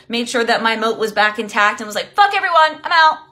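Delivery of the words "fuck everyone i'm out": higher, louder mock outburst; retold pissed off. Coach re-enacting her retreat into her castle, pissed off. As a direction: replay storming off with a raised, high voice. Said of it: "So pissed".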